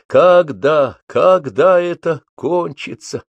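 slow, pleading question. A narrator's reading. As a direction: beg for it to end. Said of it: "умолительно спрашивало".

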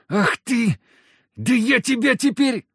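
hammed-up enraged drunk; drunken rage. A narrator's reading. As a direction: choke on fury, yelling. Drunk lout raging from the ground.

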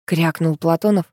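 ordinary delivery

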